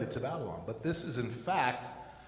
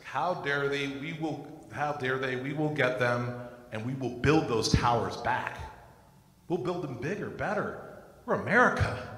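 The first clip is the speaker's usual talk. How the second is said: defiant patriot. Retold or imitated. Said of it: "American patriots' attitude was".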